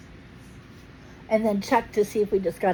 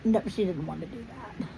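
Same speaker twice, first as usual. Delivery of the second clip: put-on soft, quieter speaking-for-baby voice; voicing the baby; 7 dB quieter than usual. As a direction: answer gently as if you were the baby. Mom answers for the baby.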